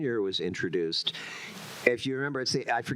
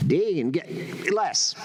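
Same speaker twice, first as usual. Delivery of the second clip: slow, calmer call for Dean; toned down; 6 semitones higher, 5 dB louder, much slower than usual. Shown as a demonstration. Actor dials the voice down during recording, calmer. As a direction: ease off the cartoon. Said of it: "a little less".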